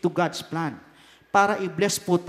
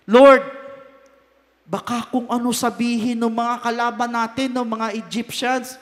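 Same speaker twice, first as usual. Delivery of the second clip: pleading Moses; 3 semitones higher, 5 dB louder than usual. Acted. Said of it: "Ayun po ang sabi ni Moses".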